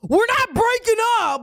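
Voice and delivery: put-on high, indignant Philly accent. Friend imitating Matt turning on the stranger, Philly accent. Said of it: "his Philly accent".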